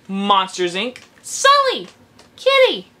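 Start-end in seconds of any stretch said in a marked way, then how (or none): 1.2-1.9 put-on very high little-kid squeal of the name; squeaky toddler voice. Fan squealing the Monsters Inc. little girl's line. 2.3-2.9 put-on very high little-kid squeal of the name; squeaky toddler voice. Fan squealing the Monsters Inc. little girl's line.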